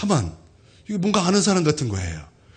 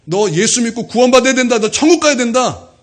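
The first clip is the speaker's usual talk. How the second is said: raised, louder voice pressing the point; insistent urging; 5 semitones higher, 8 dB louder than usual. Retold or imitated. Teacher urges former pupil toward salvation, insistently. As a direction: urge him emphatically to believe.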